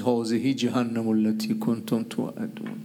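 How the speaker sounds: slow Quranic verse quotation; solemn recitation. Retold or imitated. Vizier proposes an epitaph to the sultan, solemn recitation. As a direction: recite the verse slowly and gravely.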